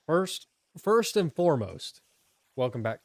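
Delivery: loud and high, hyping the chat; hyped announcement. Real, not acted. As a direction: announce it like a big reveal.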